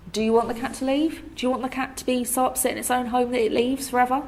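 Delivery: guilt-trip as the mum, pitch climbing; imitated guilt-trip. Mum guilt-trips about cat, retold.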